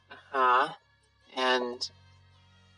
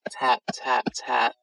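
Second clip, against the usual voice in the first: whispering. Shown as a demonstration. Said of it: "That's how that works".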